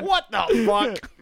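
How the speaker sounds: high, loud, slow disbelief; incredulous. Retold or imitated. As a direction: stretch it out in disbelief. Reacting to absurd bullet.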